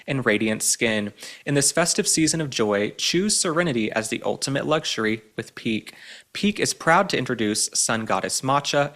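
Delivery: smooth sponsor read, unhurried. Acted. Reads a sponsored ad.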